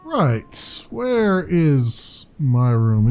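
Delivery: drawn-out mimicry of a game character; slow, teasing copy of an overheard line; mock echo. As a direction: parrot the line very slowly, stretching each word.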